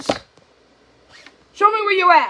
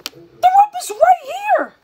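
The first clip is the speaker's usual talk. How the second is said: high, excited calling out; excited discovery; 10 semitones higher, 3 dB louder than usual. Real, not acted. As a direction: call the guys over excitedly. Spots the rope at last.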